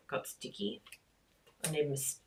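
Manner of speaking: ordinary talk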